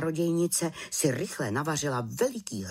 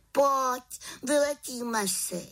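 put-on high, eager girlish witch voice; a lively young witch urging a trip; little witch voice; 12 semitones higher, slower than usual. The little witch invites the raven, high and eager. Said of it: "Jednoho dne prohlásila".

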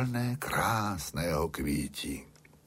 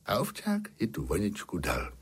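plain reading voice

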